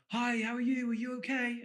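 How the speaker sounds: high, people-pleasing greeting. Retold or imitated. Coach imitating how people greet strangers, high submissive voice. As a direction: lift the whole greeting into a high mock voice. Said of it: "they, like, change their voice".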